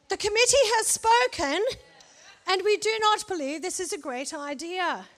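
put-on pompous English committee accent. Preacher mocks the fearful spies in a mock English accent. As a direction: play a stuffy English committee. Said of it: "why they had English accents".

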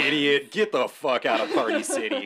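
loud rude shop manager snapping; rude angry manager. Retold or imitated. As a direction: tell them off like a rude manager. Acted rude Party City manager.

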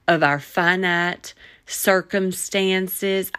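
slipping into a Southern drawl; stretched-out Southern vowels. Real, not acted. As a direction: let a Southern drawl creep in. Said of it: "I don't know why I'm taking on the Southern drawl".

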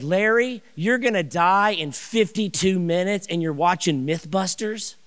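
can't believe what you're seeing; exasperated disbelief. Retold or imitated. To dying Larry watching TV, loud incredulous disbelief.

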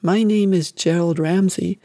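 small, obedient recital; a mild hint of a scared child; boy obeying his mother, barely voiced meek repetition; frightened boy repeating. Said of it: "He repeated".

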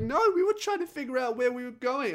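a hint of the airy girlfriend; mock girly reply. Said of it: "And they're like".

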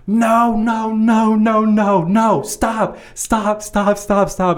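high, frantic mock protest; imitated furious woman. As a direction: act out an outraged customer, not truly shouting. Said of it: "She comes out furious, absolutely furious".

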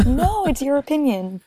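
laughing refusal. Real, not acted. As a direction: laugh while saying no. Laughs off being asked to help.

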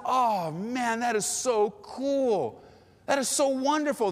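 high-pitched, delighted congratulations; excited for them. Retold or imitated. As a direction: retell it as heartfelt, drawn-out admiration. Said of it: "I was so excited for them".

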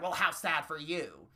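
sarcastic mock pity; Robin Williams. A Canadian mocking weak money, light mock-pity quote. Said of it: "to quote Robin fucking Williams".

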